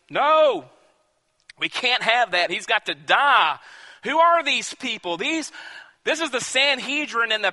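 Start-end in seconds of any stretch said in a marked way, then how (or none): 0.1-3.6 insistent raised voice; a mild angry demand; demanding leader. Acted. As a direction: voice the priests demanding his death. Leaders demand Jesus' death.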